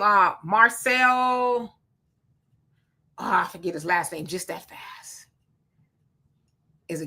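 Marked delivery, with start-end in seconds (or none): 3.2-7.1 muttered under the breath to himself; a private whisper, almost unvoiced; whispered aside. Real, not acted. Forgetting the name, aside to self.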